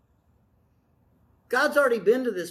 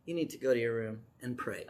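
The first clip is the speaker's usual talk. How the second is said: soft, kind nudge from a wife, quieter and lower; gentle wife voice; 9 semitones lower, 9 dB quieter, faster than usual. Retold or imitated. The wife telling her stressed husband to pray, gently and softly. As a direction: gently send him off to pray. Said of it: "she does it very nicely".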